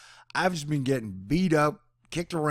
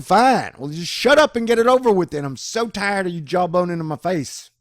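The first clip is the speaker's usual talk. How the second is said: loud, high, exasperated snap back; fed-up retort; 7 semitones higher, 9 dB louder than usual. Retold or imitated. Answering the space pirates, a loud fed-up snap. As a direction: tell them to get it over with, fed up. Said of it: "I'm like".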